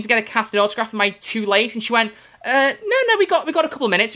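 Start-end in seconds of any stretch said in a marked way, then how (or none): 2.4-4.1 manager voice. Retold or imitated. Manager voiced in retold story.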